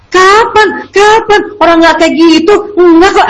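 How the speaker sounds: high, indignant protest, pitched well up; mock denial. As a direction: play the defensive parent denying it all. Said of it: "itu kalau denial". (nada tinggi menyangkal dengan kesal)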